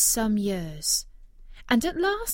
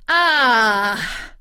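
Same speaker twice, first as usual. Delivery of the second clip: loud, taunting witch's exclamation; mocking cry; 3 semitones higher, 10 dB louder than usual. Enchantress taunting the prince at the window, loud mocking cry. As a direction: crow over him in triumph. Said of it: "she cried mockingly".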